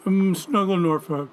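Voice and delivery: talking through a mouthful of food; words muffled by a bite of food; mouth full. Real, not acted. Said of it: "My, my mouth is full".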